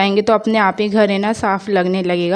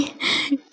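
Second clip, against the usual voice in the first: short, hushed laugh; soft chuckle; 9 dB quieter than usual. Real, not acted. Vlogger recalling her joking scolding, soft chuckle. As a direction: let out a quiet little laugh.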